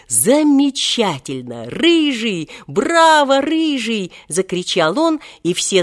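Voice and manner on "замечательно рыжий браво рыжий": rising cheer, top pitch on Браво; delighted shout. A narrator's reading. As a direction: shout it out, thrilled by the show. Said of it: "восхищённо воскликнул".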